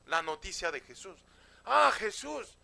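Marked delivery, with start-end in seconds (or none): 1.6-2.6 higher, louder cry of recognition; excited exclamation. Acted. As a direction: exclaim it like someone spreading big news. Gente comenta la noticia de Jesús. (exclamación emocionada)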